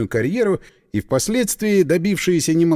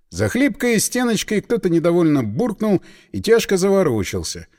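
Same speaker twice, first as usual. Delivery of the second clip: ordinary delivery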